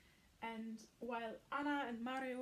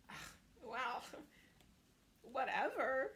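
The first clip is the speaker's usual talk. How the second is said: dismissive laugh. Retold or imitated. Nick shrugging off Noah's objection with a laugh. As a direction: shrug it off with a chuckle.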